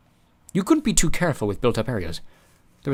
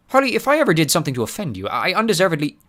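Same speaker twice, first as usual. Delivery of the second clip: pleading; 8 semitones higher, 4 dB louder than usual. Acted. Mulch pleading.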